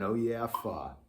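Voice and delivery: yawning "Oh yeah" then airy "fa". Shown as a demonstration. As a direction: inhale yawn, release on fa. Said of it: "I'm saying".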